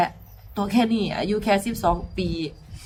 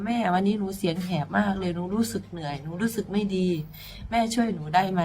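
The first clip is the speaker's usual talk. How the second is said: put-on pleading child; 5 dB quieter than usual. Hoarse girl begs mother to help, softly. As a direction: beg gently, voice worn down.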